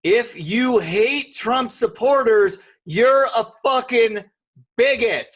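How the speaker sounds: loud, slow, hammering each word; angry rant. Real, not acted. Ranting at Trump haters, loud and slow. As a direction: jab every word at the critics.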